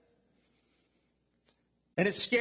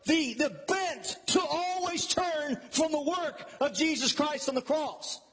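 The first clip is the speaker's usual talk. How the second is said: impassioned preaching; 4 semitones higher than usual. Real, not acted. Preaches with rising force.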